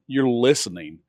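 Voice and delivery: normal talking voice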